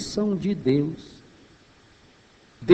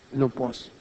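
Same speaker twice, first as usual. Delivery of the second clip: quiet refusal; 4 semitones lower, 9 dB quieter than usual. Acted. Isaac refuses his son.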